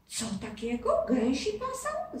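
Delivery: put-on amused disbelief at the goose boy; mild laughing surprise. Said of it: "zaśmiał się chłopiec".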